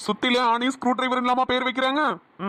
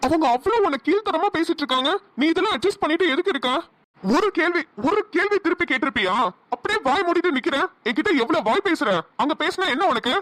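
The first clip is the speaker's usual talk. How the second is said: raised-pitch, exasperated scolding; angry reproach; 3 semitones higher than usual. Acted. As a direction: take her to task for staying silent. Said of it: "எனக்கு கோவம்". (கோபமாக கடிந்துகொள்வது)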